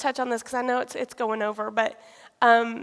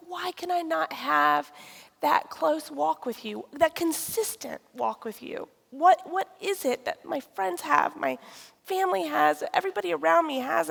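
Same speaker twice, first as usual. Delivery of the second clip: pleading; 5 semitones higher than usual. Retold or imitated. Acted pleading questions to God.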